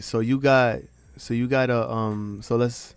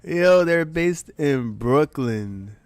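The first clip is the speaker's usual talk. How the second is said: stunned disbelief; 3 semitones higher, 4 dB louder, much slower than usual. Real, not acted. Repeating the shock, slowly.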